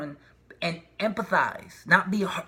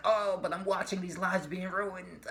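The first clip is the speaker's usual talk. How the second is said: soft sad heart; 5 dB quieter than usual. Pretend. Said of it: "the heart's like".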